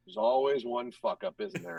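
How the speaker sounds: high-pitched weary complaint; exasperated jab. Retold or imitated. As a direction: needle him like a fed-up border guard. Border guard's jab, retold.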